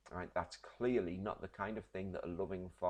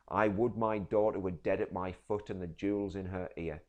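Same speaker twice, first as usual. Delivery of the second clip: bitter outburst; 6 dB louder than usual. Shown as a demonstration. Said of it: "So let's read it again".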